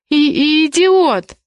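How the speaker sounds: high, drawn-out, stammered outburst; exclaimed insult. A narrator's reading. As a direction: exclaim it indignantly, stumbling on the start. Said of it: "громче воскликнула Зоя".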